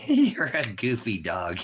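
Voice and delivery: laughing whisper. Real, not acted. Laughing at the goofy dog.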